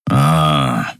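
low, short growl. A narrator's reading. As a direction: grunt without looking up. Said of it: "knurrte der Skria".

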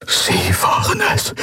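whispered, voiceless accusation; breathed. A narrator's reading. Prisoner realising the commodore is responsible, breathed. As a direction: barely breathe it out. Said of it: "hauchte er".

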